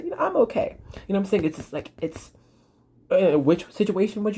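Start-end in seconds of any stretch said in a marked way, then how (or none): 0.0-0.8 put-on upbeat kid. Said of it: "this person said".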